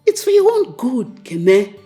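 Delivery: mother insisting loudly to her son; emphatic loud insistence. Acted. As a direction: drive it home to him. Mother repeats it, louder.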